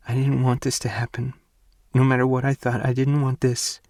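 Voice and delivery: broken tearful plea. Acted. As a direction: insist through crying. Ivy still crying.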